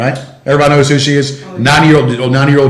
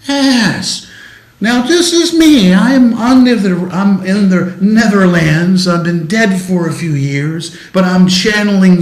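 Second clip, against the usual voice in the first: high, slow TV chef voice; Julia Child impression; 6 semitones higher, slower than usual. Host still speaking as Julia Child, high and slow. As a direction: stay up high and drawn out as the chef. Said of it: "Julia Childs said".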